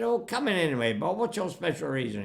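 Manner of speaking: put-on high, breezy posh boys; cheerful condescension. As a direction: imitate upper-middle-class boys coaxing him in. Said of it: "cheerful condescension of well-educated, upper middle class boys".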